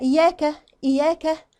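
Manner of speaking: quick "إياك" with weak i and single y; careless iyyaka. Shown as a demonstration. Teacher shows the flawed word, hurried and loose. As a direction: rush "إياك", losing the doubled yaa. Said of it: "ما كسرتش الهمزة كويس".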